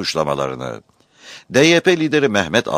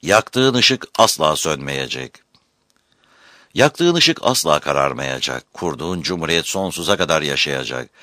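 solemn vow; 3 semitones lower than usual. Acted. Solemn oath to Atatürk.

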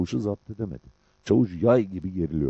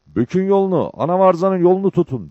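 high, loud shouted order; shouting; 11 semitones higher, 8 dB louder than usual. A narrator's reading. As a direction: shout the command to men far away. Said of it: "diye bağırdı". (tiz sesle bağırarak emir vererek)

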